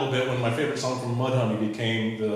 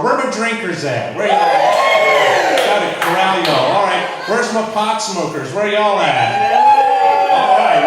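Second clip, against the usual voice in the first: loud roll call of the room; crowd call-out; 6 semitones higher, 9 dB louder than usual. Real, not acted. Comic calling out the crowd sections, loud and rowdy. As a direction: shout out to the back rows like a hype man.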